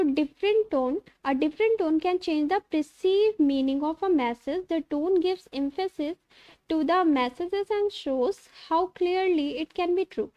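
slow, careful reading of notes; slowly dictating textbook lines; reading aloud. Acted. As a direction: read it out word by word, slowly. Reads English slide text.

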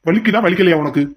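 mock her tears, rising in anger; angry taunting. Villain taunts crying captive. (அழுகையைக் கிண்டல் செய்யும் கோபக் குரல்)

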